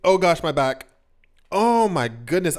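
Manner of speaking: groaning mid-stretch; strained voice while stretching the back. Real, not acted. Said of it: "sorry, I'm stretching".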